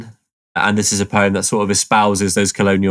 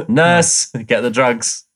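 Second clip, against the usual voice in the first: mock calling out; 2 semitones higher, much slower than usual. Jokingly calls for a nurse.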